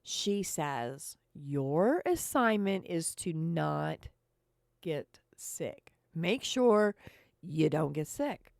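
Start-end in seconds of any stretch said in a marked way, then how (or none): 1.3-8.5 nurse giving a solemn order; measured, pausing for weight; real serious. Retold or imitated. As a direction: quote it deliberately, like a grave warning. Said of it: "She says this like she's real serious".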